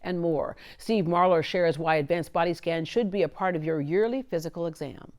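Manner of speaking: scripted infomercial opener with punched key words; announcer intro read. Acted. Host introduces the body scan show to listeners, announcer read. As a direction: read it like a programme promo.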